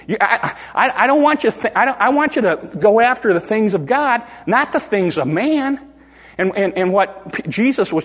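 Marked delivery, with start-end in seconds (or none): 0.1-5.9 high, insistent pleading correction; urgent correction. Retold or imitated. Jesus correcting Peter, high and insistent. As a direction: press the point high, restarting as you go.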